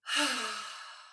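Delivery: breathy relaxing exhale; demonstrated letting-go sigh; sigh out of mouth. Shown as a demonstration. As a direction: sigh it all out through the mouth. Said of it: "Just sighing".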